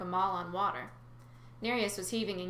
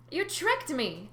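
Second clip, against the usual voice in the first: mild yell; 7 semitones higher, 3 dB louder, much slower than usual. Acted. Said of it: "I yelled".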